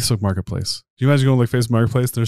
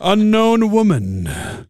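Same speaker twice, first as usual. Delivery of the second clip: much higher, drawn-out fighter name call; mock ring announcer; 12 semitones higher, 3 dB louder, much slower than usual. Host calls the mock fighter's name, booming ring-announcer style. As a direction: stretch the name out like a boxing introduction.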